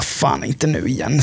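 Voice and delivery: muttered curse. Retold or imitated. Pain hits, quiet groan.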